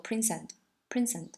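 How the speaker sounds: "prince and" run together as one word; linked words. Shown as a demonstration. Teacher teaching linking, "prince and" said as one word. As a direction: link the final S of "prince" into "and". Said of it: "想象有这么一个单词".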